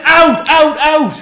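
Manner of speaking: loud, high mock shouts; repeated barked order, hammed up; imitated yelled order. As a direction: throw them out like a furious server. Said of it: "she yelling at a fucking dog".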